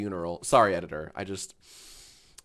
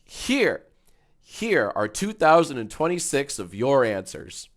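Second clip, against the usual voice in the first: YouTuber voice; 3 semitones higher than usual. Acted. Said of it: "Do you always talk like a radio host".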